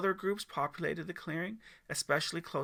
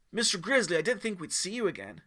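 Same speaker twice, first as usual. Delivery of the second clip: excited greeting; 4 semitones higher, 4 dB louder than usual. Acted. Teen greets surprise guest.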